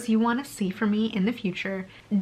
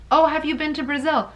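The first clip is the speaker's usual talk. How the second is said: mock naive asker; 7 semitones higher, 3 dB louder than usual. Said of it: "they have to ask me".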